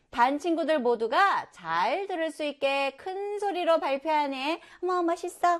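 lightly acted, high-pitched wonder; acted admiration. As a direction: praise as an awed classmate would. Voices classmates praising a presenter.

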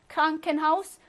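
"Krankenhaus" stressed on Kran; compound front stress. Shown as a demonstration. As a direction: lean on the first word of "Krankenhaus". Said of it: "앞에 강세가 온다".

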